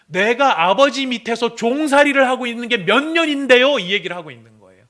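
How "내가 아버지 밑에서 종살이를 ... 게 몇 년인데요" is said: loud, high, bitter complaint; resentful son. Acted. Older son yelling his grievance at the father, high and loud. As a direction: spit out years of resentment. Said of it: "지금 아들이 무슨 말을 하는 거죠".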